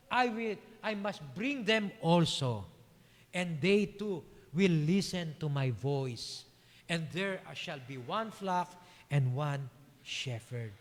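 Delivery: very slow, deliberate recitation; measured scripture reading. A narrator's reading. Preacher rereading the shepherd verse to congregation, slow and deliberate. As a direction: read it out slowly, weighting key words.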